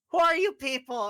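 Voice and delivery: startled shout. Acted. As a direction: call down in alarm. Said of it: "he goes".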